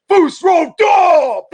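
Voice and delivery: loud high-pitched bellow; booming shout. Retold or imitated. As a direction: blast it out like a magic horn. GM imitates booming thaumaturgy shout.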